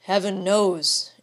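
slow, heavy sorrowful agreement; sad. A narrator's reading. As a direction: sorrowfully admit she is right. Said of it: "said Aylmer sadly".

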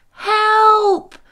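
high squeaked cry for help; a tiny bee's high squeal; tiny bee tumbling in the wind, high squeak. A narrator's reading. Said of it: "he squeaked".

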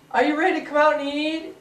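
high, loud call. Real, not acted. Husband calling his wife to come eat, loud call. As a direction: call through the house.

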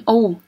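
"U" said as a plain oo, without a y glide; "U" with no y sound in front; U as a pure vowel. Shown as a demonstration. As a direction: demonstrate the wrong reading of "U" as oo. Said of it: "không có đọc thành âm".

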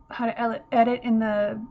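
hiccuping mid-sentence; words broken by hiccups. Real, not acted. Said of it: "got the hiccups now".

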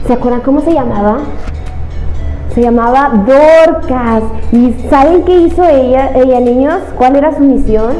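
put-on lively storyteller voice for kids; reading to children. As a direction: tell it like a kids' show host.

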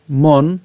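"মন" set apart, closed on the ন; broken into syllables. Shown as a demonstration. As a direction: say "মন" as its own piece after a pause. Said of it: "এই দন্তন্য পর্যন্ত উচ্চারণ করলাম". ("মন" আলাদা করে ভেঙে)

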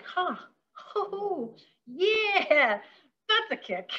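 mock surprise at a sour kick, voice jumping high; surprised reaction. Tasting the citrus stuff, imitating a high, surprised reaction. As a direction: react as if the citrus just bit back. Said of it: "and you're like".

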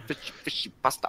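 hushed, voiceless chant; playful whisper. Pretend. Player teasing friends with nonsense, playful whisper. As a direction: whisper it under the others' chatter.

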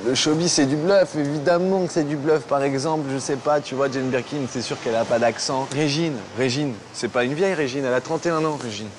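lightly put-on German accent in French; a hint of a German accent; faint German-accented French. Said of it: "ton accent allemand".

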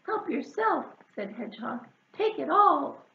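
relieved. Acted. Hedgehog gives away load.

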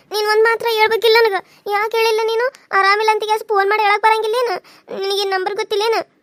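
high-pitched, mildly tearful complaint; tearful reproach. Acted. Daughter to sick mother about not phoning, tearful reproach. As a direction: scold with a touch of crying. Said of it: "ಅಳ್ಬಾರ್ದು, ಸುಮ್ನಿರುವ".

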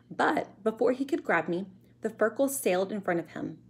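put-on measured read-aloud for children; story narration. A narrator's reading. Teacher reading a chapter to pupils, storytelling voice. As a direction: tell the adventure clearly, with suspense.

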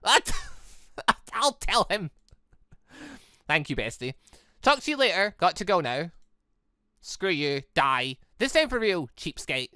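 ordinary delivery

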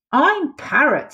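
high, slow squawk of a proud parrot. Acted. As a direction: squawk it out like a showy bird. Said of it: "he squawked".

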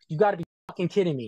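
fast, scornful retold shout; impatient boss, imitated; exasperated mock shout. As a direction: throw it at him like he's hopeless. Boss mocks him over tripod.

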